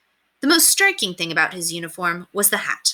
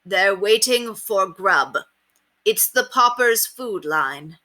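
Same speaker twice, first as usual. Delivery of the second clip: slow, loud over-clear words; slow and loud for children; much slower than usual. Acted. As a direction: spell it out for little ones. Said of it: "spoke slowly and loudly for the sake of the children".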